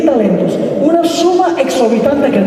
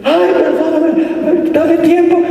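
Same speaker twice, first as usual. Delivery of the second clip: high, drawn-out begging; slow, whiny plea for time; mock pleading; 6 semitones higher, slower than usual. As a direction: imitate a debtor wailing for mercy. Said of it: "el individuo le dice lo mismo".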